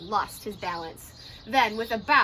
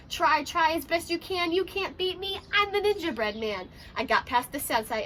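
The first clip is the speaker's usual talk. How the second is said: taunting cookie. Acted. Cookie taunting the Ninja Mouse.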